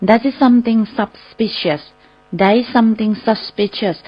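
very slow, careful English; slow model phrase. Shown as a demonstration. Teacher modelling a phrase for listeners, very slow. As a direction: stretch each word out for learners. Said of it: "เราอาจจะบอกว่า".

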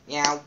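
a plain little meow; mock cat meow; cat noise. Shown as a demonstration. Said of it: "That's my cat noise".

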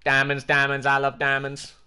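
mock a cheesy parody song; Minecraft parody imitation. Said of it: "that's like every Minecraft parody ever".

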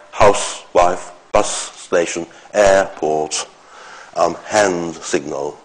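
"house, wife", "bus station", "hand signal" slowly pulled into halves; split compound nouns. Shown as a demonstration. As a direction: pull apart each compound, as in "air-port", first part stressed. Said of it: "sort of compound noun".

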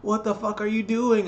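high, hushed disbelief; a mom stunned by a naked man running past; shocked. Retold or imitated. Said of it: "my friend K Burn's mom actually saw him naked and was like".

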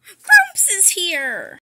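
loud, slow, drawn-out announcement; excited call. Acted. Kid shouting to the family that Grumps is here, excited. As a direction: call out that Grumps has arrived.

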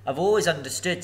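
frightened squeak. Acted. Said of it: "in a frightened squeak".

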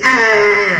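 a short high mock scream of "Ah!"; imitated scream. Grandfather imitating the granddaughter's screaming habit, short high mock "Ah!". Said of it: "developed a habit of screaming".

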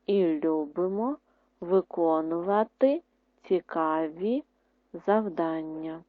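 word by word, slow pauses; slow dictation. Shown as a demonstration. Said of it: "Третє". (диктант по слову)

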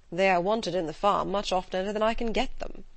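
dry and level, close to the narrator's own voice; a weary husband answering dryly; Mr Bennet's voice. Acted.

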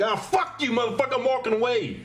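imagined rude exit line; what I'd have liked to say. Retold or imitated. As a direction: snap it like you're done with him. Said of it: "I didn't say that".

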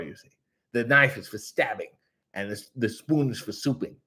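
a light, goofy take on Harley Cameron. Retold or imitated. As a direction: play her as a cheerful airhead, lightly voiced. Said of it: "There's my Harley Cameron".

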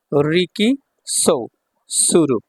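very slow, with pauses between parts; slow demonstration. Shown as a demonstration. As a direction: sound it out piece by piece. Teacher assembles the word slowly. (থেমে থেমে খুব ধীরে উচ্চারণ)

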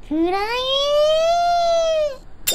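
long high shouted attack name; screaming attack name. Acted. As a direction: scream it as the blade lands. Final blade strike on boss.

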